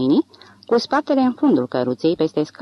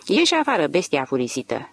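țipăt. Acted. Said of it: "țipă ea".

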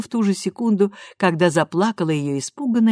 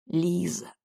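softer, a gentle correction; quiet correction; 6 dB quieter than usual. A narrator's reading. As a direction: murmur the name back. Daughter quietly corrects her mother.

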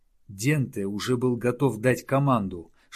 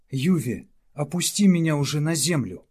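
perked up; 4 semitones higher than usual. Acted. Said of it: "оживился Малеста".

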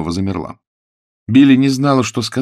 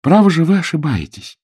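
high, urgent cry; Billy exclaims to Mr Peters, alarmed; exclaiming; 9 semitones higher, 3 dB louder than usual. A narrator's reading. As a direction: call his name in alarm. Billy protesting.

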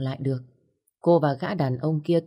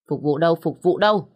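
giọng lè nhè; 4 dB louder than usual. Acted. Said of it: "Cô ta cất giọng lè nhè".

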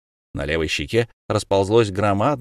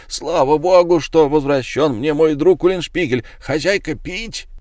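loud, high, jubilant cry; joyful shout; 6 semitones higher, 4 dB louder than usual. A narrator's reading. Lamme greets his returning friend with a loud joyful shout. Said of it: "крикнул".

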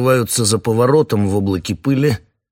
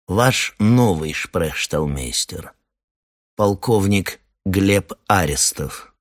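slow, calm, deep colonel; a slow velvet menace, unhurried; deep velvety voice; slower than usual. Acted. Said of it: "глубокий, спокойный, бархатный голос".

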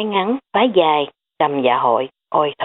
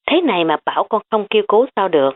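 fast protest; 4 semitones higher, faster than usual. Acted. Niece complaining to uncle.

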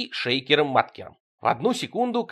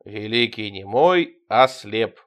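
funereal tone; 3 semitones lower, slower than usual. Acted. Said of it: "похоронным голосом сказал Витёк".

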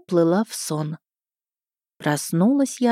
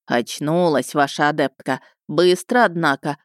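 dry smirk; 4 semitones lower than usual. Acted. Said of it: "хмыкнул незнакомый голос".

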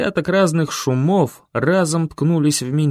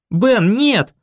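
higher, louder cry of his name; desperate call; 8 semitones higher, 4 dB louder than usual. A narrator's reading. Boy being dragged away calling Ben, desperate cry. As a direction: call out to him in panic.

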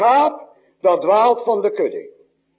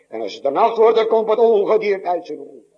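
usual speaking voice

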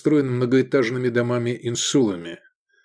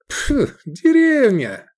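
scoffing; 13 semitones higher, 4 dB louder, much slower than usual. Acted. Edik mocks a village.

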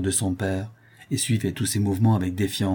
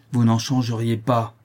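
firm denial in an even voice; measured, stern rebuttal; firm contradiction. Acted. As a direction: contradict him without raising the voice. Father contradicts, then repeats harder.

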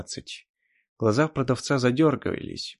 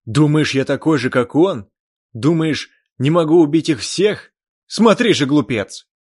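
loud, higher furious shouting; enraged yell; 5 semitones higher, 11 dB louder than usual. Acted. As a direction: threaten in rage. Chan enraged, about to attack.

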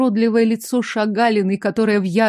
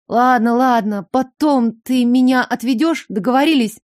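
plain reading voice

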